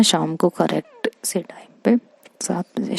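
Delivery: hushed unvoiced promise; whisper. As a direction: keep it secret from the friends nearby. Promising on phone beside friends. (फुसफुसाकर वादा)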